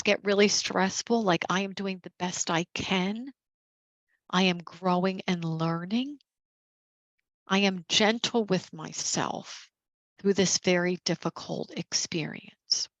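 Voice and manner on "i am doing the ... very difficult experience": gentle affirmation. Shown as a demonstration. Leader modelling positive affirmations for caregivers, calm and gentle. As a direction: offer it to yourself gently. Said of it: "say positive things to themselves".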